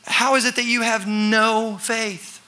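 tired Jesus asks his frightened friends; weary rebuke. Retold or imitated. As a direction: ask it gently disappointed. Jesus questioning disciples.

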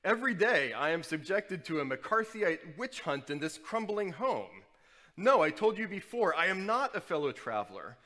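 a hint of an indignant blowhard; pompous Ignatius rant. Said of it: "Ignatius bellowed".

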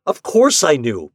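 loud protest. A narrator's reading. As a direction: protest it indignantly. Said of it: "protested Ford".

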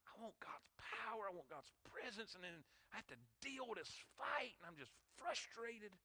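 weary exhaustion. Retold or imitated. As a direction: speak as if drained after battle. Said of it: "He's just like".

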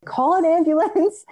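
high, strained mock shout; imitated yell. Brother shouting orders down the phone, high mock yell. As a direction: squeal it out like a panicking brother. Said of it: "And my brother's yelling".

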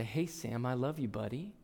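put-on very soft, almost whispered, to a sleeping child; hushed tenderness near a dozing boy. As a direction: say it gently so he doesn't wake. Leaning down to sleeping son.

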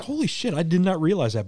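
retold surprise. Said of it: "I'm like".

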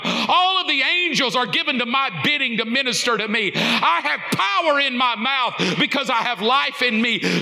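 proclaiming at full force over the music; preaching declaration. Acted. Preacher declaring scripture to the congregation, full force.

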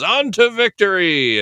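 excited cry. Retold or imitated.

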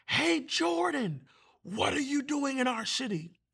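high, drawn-out eerie call; demon-possessed man calling out. Retold or imitated. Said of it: "A man called out of the tent".

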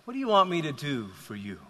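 understated tender voice; kind voice. Acted. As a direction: ask gently and kindly, a little softly. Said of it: "the kind voice, says to him".

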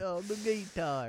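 mock country accent. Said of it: "See, we're doing it".

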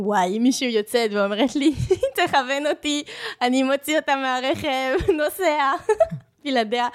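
quoting while laughing; giggling through the quote. Retold or imitated. Retold comment, laughing through.

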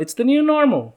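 high nasal southern twang on new normal; Tiger King southern accent. Retold or imitated. Mimicking the Tiger King guy, nasal southern accent. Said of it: "I think I did it in his accent".

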